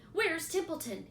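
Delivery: a pig hunting for the rat; demanding. A narrator's reading. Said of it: "he demanded".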